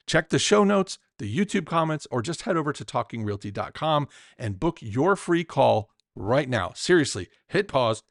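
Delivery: podcast host's measured ad read; scripted promo read. Acted. Host pitches listeners a free strategy call, promo read. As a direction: read it as a friendly call to action.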